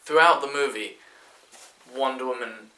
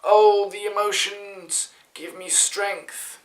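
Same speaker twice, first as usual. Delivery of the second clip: higher, slow hammed-up heroic voice; mock cheesy hero; 8 semitones higher, 4 dB louder, slower than usual. Mocking the hero's cheesy comeback, in a hammed-up high voice. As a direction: send up the hero's big corny line. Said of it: "the hero's like".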